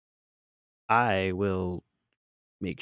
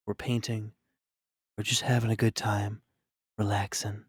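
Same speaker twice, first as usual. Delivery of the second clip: hushed, soothing whisper; soft calming voice. Shown as a demonstration. Streamer tries a soft relaxing voice for chat. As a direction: talk them gently into calm. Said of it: "Do you prefer when I talk like this?".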